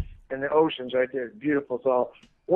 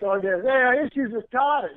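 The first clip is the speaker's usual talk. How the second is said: Rocky movie heckler; 5 semitones higher, 3 dB louder than usual. Acted. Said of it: "you ever remember in Rocky".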